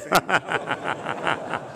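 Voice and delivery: loud breathy burst of laughter; loud hearty laugh. Real, not acted. Laugh after punchline.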